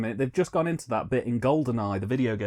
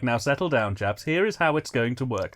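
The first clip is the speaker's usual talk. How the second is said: mock British. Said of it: "the British come into it".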